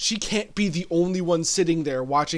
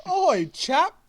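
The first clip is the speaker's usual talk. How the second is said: high, loud bad British accent; 11 semitones higher, 5 dB louder than usual. Host answers his co-host in a deliberately bad British accent. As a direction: ham up a terrible British accent. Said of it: "That was a bad accent".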